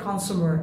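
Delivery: কনজিউমার said as kuhn-SOO-mer; American oo and final r in কনজিউমার; American pronunciation. Shown as a demonstration. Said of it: "American বলে". (কনজিউমার American ঢঙে কানসুমার)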